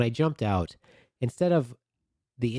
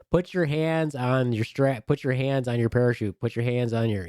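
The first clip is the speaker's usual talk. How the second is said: mock sergeant yell; 4 semitones higher than usual. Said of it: "they're yelling at me".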